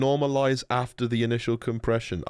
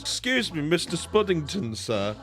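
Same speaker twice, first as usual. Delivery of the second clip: mock polite fan, a touch higher; lightly voiced overly formal asker; a hint of a fussy viewer; 3 semitones higher than usual. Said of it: "asking me".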